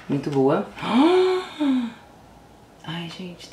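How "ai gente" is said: ordinary delivery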